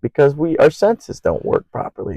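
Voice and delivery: a hint of a wild-eyed psych ward rambler; ranting crazy person. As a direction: play a lightly voiced madman ranting to nobody. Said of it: "some crazy person at the psych ward".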